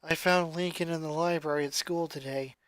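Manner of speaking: a lightly voiced somber teen; gloomy goth girl. Lucy's voice held by narrator.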